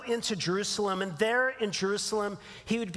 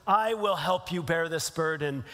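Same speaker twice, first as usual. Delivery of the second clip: a hint of a wizard, pitched down; lightly voiced Gandalf; 4 semitones lower than usual. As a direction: slightly lower voice of a solemn wizard. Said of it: "Gandalf the wizard".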